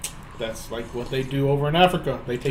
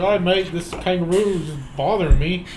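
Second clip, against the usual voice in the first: put-on a light, slower Australian accent for the roadside mate. Joking about pulling over for a kangaroo, in a light Australian accent. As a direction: drawl it out like an Aussie bloke. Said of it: "Can you do that accent again?".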